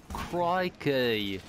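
put-on muddled Australian accent, drawn-out word; a botched go at an Australian accent; attempted Australian accent. Player clowning for friends in an attempted Australian accent. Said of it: "try to do an Australian one".

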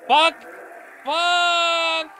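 high startled yelps; startled scream. Real, not acted. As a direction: jump scare shriek. Startled by monster in game.

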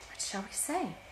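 hushed, hurried whisper; feverish whisper. Acted. Sisters whispering for an answer, feverish whisper. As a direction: mutter it to each other, anxious. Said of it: "whispered feverishly again".

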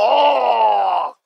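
long, held-out "oh"; exaggerated moan of complaint; mock groan. Host repeats his mock groan. (κοροϊδευτικό, παρατεταμένο βογκητό)

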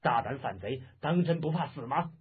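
mildly angry officer's rebuke; stern, threatening challenge; scolding. Acted. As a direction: berate a captured rebel. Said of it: "骂道".

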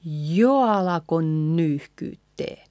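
jo alako joined, jo gliding into the A; vowels combined. Shown as a demonstration. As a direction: link jo into alako, then nyyhkyttee. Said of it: "combining these".

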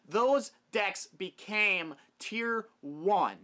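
each word punched slowly; emphatic word by word. Real, not acted. Vlogger driving home his point about structure decks, emphatic. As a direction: land every word separately, very slowly.

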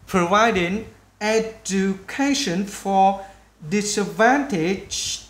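very slow syllable-by-syllable drill; slow, word by word. Shown as a demonstration. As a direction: break long words up for learners. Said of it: "mình nói chậm từng chữ". (nói chậm từng chữ)

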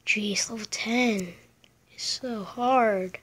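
breathy whisper, slow at the end. Real, not acted. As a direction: whisper it in frustration. Struggling with hard level.

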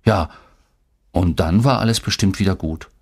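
usual speaking voice

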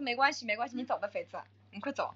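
low, soft and weary brush-off; tired dismissal. Retold or imitated. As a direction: send them away without energy. Quoting own tired dismissal.

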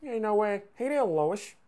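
slurred side-of-mouth cartoon impression; Peter Griffin. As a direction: ramble in character with D's for TH. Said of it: "why he talks like this".

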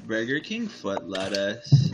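put-on slow, drawn-out Valley girl voice. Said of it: "That seriously sounds like a California Valley girl".

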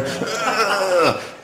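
high, drawn-out mock-angry outburst; playful wordless fuming; mock angry noise. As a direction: make a comic noise of rage, half laughing. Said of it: "I'm getting really angry".

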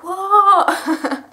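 high, loud and startled; a sharp high "what" in the middle of a full shop. Retold or imitated. Teen girl answers her mum's call with a loud startled what. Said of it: "And I was like".

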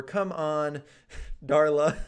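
a fed-up "come on" that breaks into a laugh; complain, then crack up at the made-up name; laughing mock frustration. Gamer scolding teammate Darla, laughing through the mock frustration.

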